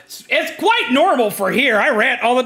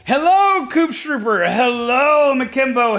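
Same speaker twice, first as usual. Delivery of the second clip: rising greetings; 7 semitones higher, slower than usual. Real, not acted. Streamer calling out hello to each viewer, climbing higher.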